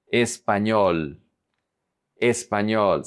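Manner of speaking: Español with a long final ñol; stress on ÑOL. Shown as a demonstration. Teacher modelling the emphasis, Español stressed on ñol. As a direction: land the weight of Español on ñol. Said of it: "emphasis is on the ñol".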